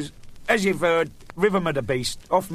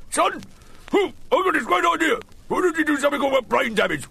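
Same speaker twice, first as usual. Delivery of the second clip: higher, excited pitch from a dinner friend; imitating his friend; 11 semitones higher than usual. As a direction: pitch the idea like a giddy mate. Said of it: "and he said".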